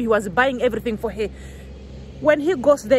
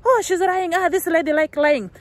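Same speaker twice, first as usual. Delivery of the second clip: much higher, sing-song mock accusation; mocking accuser; 6 semitones higher than usual. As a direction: squeal the accusation like a gossip. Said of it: "Last time you were saying that".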